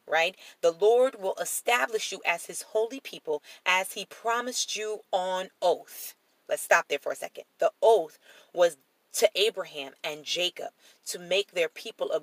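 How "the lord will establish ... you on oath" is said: measured, emphatic Bible reading; deliberate reading, drawing out the final words; scripture reading. Acted. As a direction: read the promise out with weight. Reads scripture aloud.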